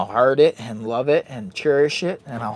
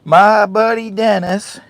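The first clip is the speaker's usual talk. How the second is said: announcer intro; 5 semitones higher, 7 dB louder, much slower than usual. Acted. Dramatic intro of buddy, slow.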